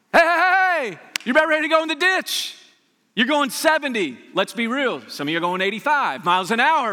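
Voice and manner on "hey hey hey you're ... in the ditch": much higher and louder, urgent; rising alarm at a drifting driver; loud warning. Acted. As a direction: shout a warning like a rumble strip. Rumble strip voiced as warning.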